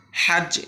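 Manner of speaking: hajje with a strong throaty h, said high and loud; Arabic recitation demo. Shown as a demonstration. Teacher models the letter for students to repeat, recited clearly. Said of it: "আপনারা পড়ুন".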